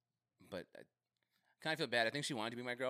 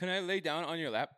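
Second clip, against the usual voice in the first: clingy crush; 9 semitones higher, 9 dB louder than usual. Acted.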